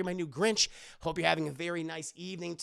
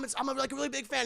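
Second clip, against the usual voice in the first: high, fast nervous gush; hammed-up starstruck fan; gushing fanboy; 6 semitones higher, much faster than usual. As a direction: babble your admiration. Fanboy gushes.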